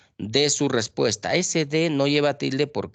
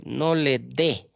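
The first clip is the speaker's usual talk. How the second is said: 1 slow example sentence; slower than usual. Shown as a demonstration. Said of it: "también lleva tilde".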